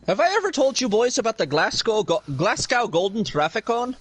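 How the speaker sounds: lightly put-on Irish accent; casual mock Irish brogue for laughs. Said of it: "really good at the accent".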